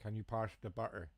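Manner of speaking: attempted northern accent sliding into West Country; failed northern accent. Shown as a demonstration. Streamer testing a northern accent, badly faked, turning West Country. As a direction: try dropping T's and drift into farmer West Country. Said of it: "See, I can't".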